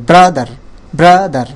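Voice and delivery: ব্রাদার with a strong ব্রা falling onto দার; two-beat ব্রাদার, pitch dropping on দার; voice shifts between syllables. Shown as a demonstration. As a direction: punch ব্রা, then step down to দার. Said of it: "উপর নিচ হচ্ছে বা একটু change".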